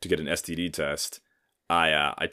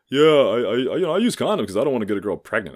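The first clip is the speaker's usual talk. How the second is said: mock earnest friend; 5 semitones higher, 6 dB louder than usual. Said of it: "friends were just like".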